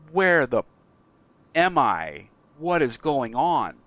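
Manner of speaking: lost and frightened, demanding answers; alarmed shout of where am I; panicked. Retold or imitated. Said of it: "he's really panicked".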